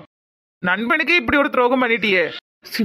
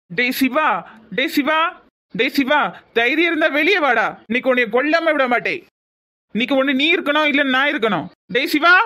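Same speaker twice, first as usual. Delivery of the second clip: angry calling out; 3 semitones higher than usual. Acted. Angry man challenging Siva outside his house, shouting. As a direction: call him out to fight, furious.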